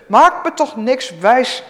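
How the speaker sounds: high, loud and slow protest; woman protests loudly to the prophet; pleading cry. Acted. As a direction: beg him not to fool her, high and loud. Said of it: "riep ze".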